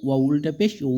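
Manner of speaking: long "উ" with rounded lips. Shown as a demonstration. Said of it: "এরকম". (ঠোঁট গোল করে টানা "উ")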